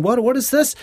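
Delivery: incredulous outcry. Retold or imitated. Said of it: "If you're going".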